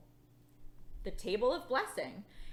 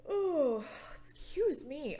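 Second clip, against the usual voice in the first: slow whispered apology; sleepy whisper; 4 semitones higher, 4 dB louder, slower than usual. Acted. Teacher catching herself dozing: slow whispered excuse me. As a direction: whisper it like you just woke up. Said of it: "I must be a little sleepy".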